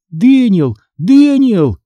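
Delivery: high, anxious calling; trembling call. A narrator's reading. Sister calls for her lost brother, trembling. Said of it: "дрожащим голосом звала я".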